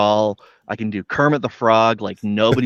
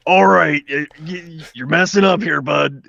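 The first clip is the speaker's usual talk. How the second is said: higher, louder, a hint of a scolding buddy; nagging character voice; 5 semitones higher, 3 dB louder than usual. Streamer voices his self-nagging character, lightly scolding. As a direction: scold yourself like a pushy pal, half-playful. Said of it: "My, my go-to one is, like, this".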